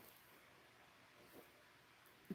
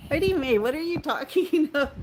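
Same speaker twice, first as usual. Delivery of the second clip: loud laughing disbelief; 6 semitones higher, 5 dB louder than usual. Real, not acted. Laughing at a friend's odd remark, loud disbelief. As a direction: call her name out, higher and louder, laughing.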